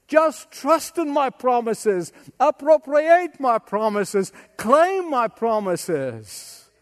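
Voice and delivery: slow, rising emphasis on each verb; building exhortation. Acted. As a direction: press each word home as the Lord's promise.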